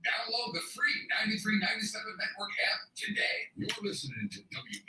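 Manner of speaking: breathy fast whisper. Acted. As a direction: whisper the promo quickly. Whispered app promo.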